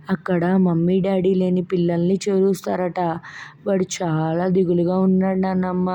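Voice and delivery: put-on a worried boy confiding in grandma; sad little boy. Child tells grandma about Max. (దిగులుగా చిన్న పిల్లాడి గొంతు)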